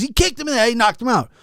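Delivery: retold excitement. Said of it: "He goes".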